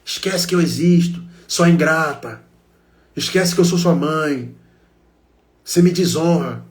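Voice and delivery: slow, mildly reproachful mother voice; mother's guilt attack. Retold or imitated. Imitating the mother attacking her daughter, in mild slow reproach. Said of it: "a mãe vinha e atacava".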